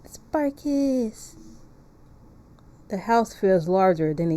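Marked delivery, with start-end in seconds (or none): 0.0-1.3 drawn-out Barkis callout. Pretend. Fan meme callout.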